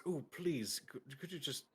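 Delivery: politely imploring sword; pleading sentient sword. Acted. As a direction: beg a small favour, trailing down quietly. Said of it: "Gladius says".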